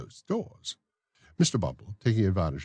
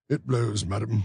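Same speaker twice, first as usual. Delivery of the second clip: raised, fussy official's voice; pompous beadle; 5 semitones higher than usual. Acted. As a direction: play the self-important beadle. Bumble speaks.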